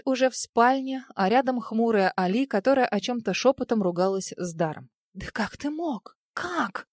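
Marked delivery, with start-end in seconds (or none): 5.1-6.9 hushed angry hiss, pitched up; a cross healer hissing at him like a cat; lightly voiced furious hiss. A narrator's reading. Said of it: "шипела Али рассерженной кошкой".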